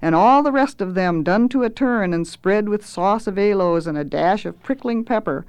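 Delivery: grandiose cook rolling out a list; pompous self-introduction; boastful chef. Acted. Swelter's boastful speech.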